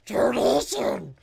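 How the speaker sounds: high, slow drawn-out announcement yell; imitated donation alert. Streamer imitates his scary donation sound, drawn-out yell. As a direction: belt it out, stretching each syllable. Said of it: "It's my voice going".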